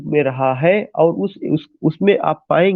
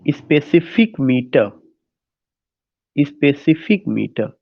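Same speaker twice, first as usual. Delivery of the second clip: very slow, syllable by syllable; slow dictation; 2 semitones lower, much slower than usual. Real, not acted. Teacher dictating the meter to students, slow dictation. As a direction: repeat it slowly for note-takers.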